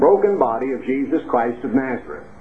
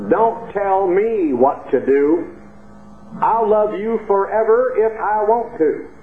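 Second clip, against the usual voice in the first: slow East Texas country drawl, pitched up; East Texas chorus; 5 semitones higher, slower than usual. Retold or imitated. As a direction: draw out the chorus in a high East Texas accent. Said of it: "has a chorus that goes like this".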